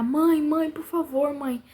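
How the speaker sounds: retold panicky plea, not a full yell; retold frantic cry. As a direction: imitate a son begging his mother. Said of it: "começou a gritar".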